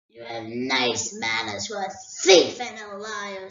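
a great dragon toying with a thief; dragon Smaug. Acted. Smaug answers Bilbo.

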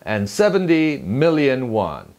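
"million" with firm stress on MIL; slow, clear "And seventy million won"; first-syllable stress. Shown as a demonstration. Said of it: "확실하게 철음절에 강세를 주시고요".

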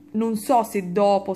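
hiccuping mid-sentence; speaking through a hiccup. Real, not acted. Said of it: "scusate il singhiozzo".

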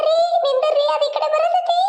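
high urgent cry to stop; wife warning husband the snake is coming, panicked. Acted. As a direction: shout a frantic warning.

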